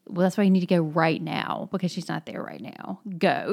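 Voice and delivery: mildly insistent urging. Retold or imitated. Retelling Alyosha urging Katya to go, mildly insistent. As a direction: press her to leave, with a firm final push. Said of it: "he's so insistent".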